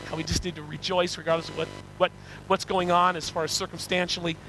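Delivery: earnest, measured pastoral prayer; congregational prayer. Real, not acted. Preacher thanking God for his word, congregational prayer. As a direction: lead the congregation in sincere prayer.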